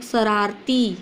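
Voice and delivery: "शरारती" with a drawn-out final ee; long, easy ending on "शरारती"; relaxed long ending. Shown as a demonstration. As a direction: hold the last vowel of "शरारती" at ease. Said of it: "ती last में हम लोग आराम".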